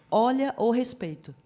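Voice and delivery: mild mock telling-off; retold firm reminder. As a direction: call a small child to order. Tia repreende o sobrinho que gritava. (advertência firme, reencenada)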